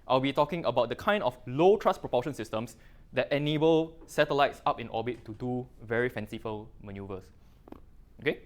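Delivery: talking around a candy; words round a candy in the mouth; mouth full. Real, not acted. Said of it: "I got candy in my mouth".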